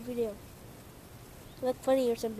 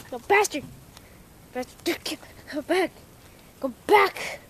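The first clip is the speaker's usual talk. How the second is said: loud, higher yell; yelling at dog; 5 semitones higher, 7 dB louder, slower than usual. Real, not acted. Owner shouting after the runaway dog, loud high yell. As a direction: shout after him as he bolts.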